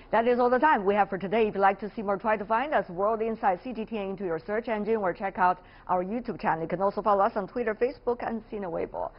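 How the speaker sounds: upbeat presenter outro; brisk broadcast closing read; TV host sign-off. Acted. Host's programme sign-off.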